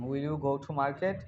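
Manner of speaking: slow, deliberate teacher model; slow model sentence. Shown as a demonstration. Teacher modelling a sentence slowly for students. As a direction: spell it out slowly for the learners.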